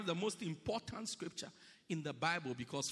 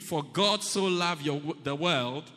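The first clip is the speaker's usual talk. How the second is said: louder, emphatic recitation; say it like you mean it; 7 dB louder than usual. Shown as a demonstration. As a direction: declare it with conviction. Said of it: "Say it like you mean it".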